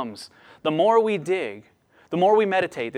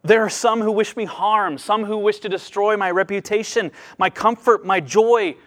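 pleading prayer; 4 semitones higher than usual. Retold or imitated. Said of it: "He's saying".

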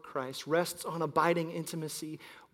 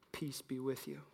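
softer, hushed greeting; hushed Jesus line; 5 semitones lower, 14 dB quieter than usual. Acted. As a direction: say it gently, almost hushed.

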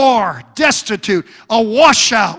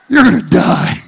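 louder, hammed-up yell of the news; shouted punchline; 3 semitones higher, 3 dB louder than usual. Wife repeating the news to her husband, mock shout. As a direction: shout it the second time for the laugh.

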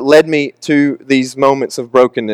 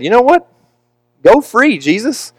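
imitating Pilate; 9 semitones higher than usual. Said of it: "If Pilate had said".

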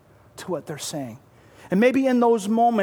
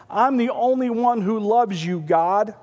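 higher, pouting self-pity; whiny Elijah; 4 semitones higher than usual. Acted. Preacher voicing Elijah sulking to God, mildly whiny. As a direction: sulk it out like a martyr.

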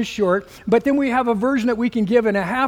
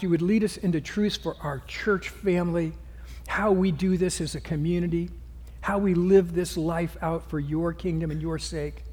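soft, lower praying voice; soft-spoken pastoral prayer, trailing quieter to the amen; 3 semitones lower, 5 dB quieter than usual. Real, not acted. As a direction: pray aloud for the church, gently and humbly. Leads the congregation in prayer.

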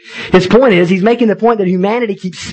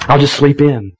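lightly acted shrug, lower than usual; bored, unimpressed; 5 semitones lower, faster than usual. Preacher voicing the writer shrugging at sunrises, mildly bored. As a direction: toss it off with mild boredom. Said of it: "He's just bored with it".

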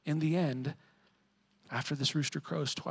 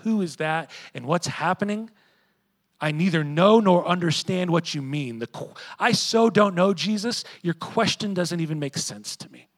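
rising, much louder flustered denial; panicked denial; 5 semitones higher, 9 dB louder than usual. Acted. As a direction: babble it out, cornered and getting louder. Peter's panicked denial acted out.

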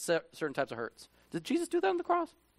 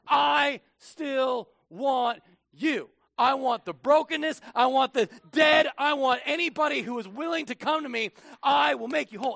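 voice of Jesus; 8 semitones higher than usual. Acted. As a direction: proclaim God's longing to the hurting crowd. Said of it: "And he says".

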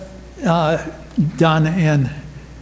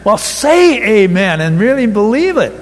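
urging amen; 3 semitones higher than usual. Real, not acted. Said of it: "you are supposed to say".

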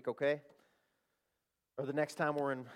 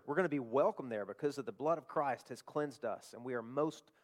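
prayer; 2 semitones lower, 3 dB quieter than usual. Acted. Pastor closing the sermon, praying softly to God. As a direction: pray quietly over the congregation.

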